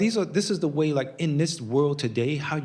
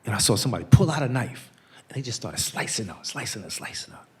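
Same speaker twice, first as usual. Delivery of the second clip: imitating hesitant confession; 3 semitones lower than usual. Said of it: "he said".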